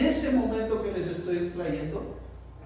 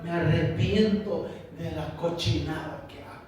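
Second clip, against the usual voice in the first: raised, pleading confession; tearful repentance; 3 semitones higher than usual. Acted. Repenting before God for not seeking Him, acted tearful plea. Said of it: "es este lloro de decir".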